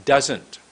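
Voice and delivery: "Doesn't" with a long first vowel; tongue above the top teeth, stretch "Doesn't"; a deliberate, drawn-out "Doesn't"; lengthened word. Shown as a demonstration. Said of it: "like this".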